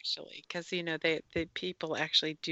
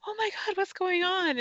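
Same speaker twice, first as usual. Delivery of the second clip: startled; 11 semitones higher than usual. Retold or imitated. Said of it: "I was like".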